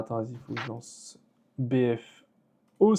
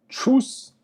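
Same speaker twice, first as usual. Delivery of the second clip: squeaky goodbye; 12 semitones higher, 7 dB louder than usual. Real, not acted. Waving goodbye to viewers.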